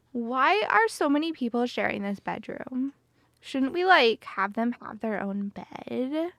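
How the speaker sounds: lightly voiced ditzy Valley Girl. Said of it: "we have a Valley Girl voice?".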